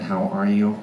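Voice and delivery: lightly voiced weaselly character talking through buck teeth; a hint of a buck-toothed weasel. Shown as a demonstration. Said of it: "I spoke like that".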